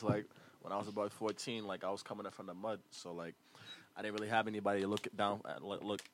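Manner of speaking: rapper talk. Real, not acted. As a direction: talk low and loose like a rapper being interviewed. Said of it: "Why do all rappers talk like that?".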